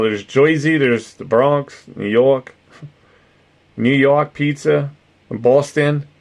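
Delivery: badly faked Jersey, Bronx, New York and Boston accents; mixed East Coast accents. Streamer sampling regional accents, muddled East Coast accents. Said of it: "I can't do a Jersey. I just combine them".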